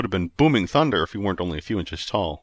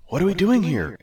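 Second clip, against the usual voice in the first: Ares asking; 9 semitones higher, 4 dB louder than usual. Acted. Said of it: "Ares asked".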